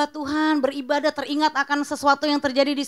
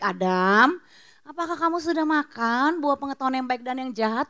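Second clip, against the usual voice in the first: gentle question. Acted. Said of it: "Tuhan tanya baik-baik".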